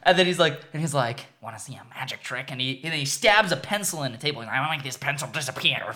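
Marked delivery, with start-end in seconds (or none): 1.4-5.9 lightly voiced Joker. Joker's lines, retold.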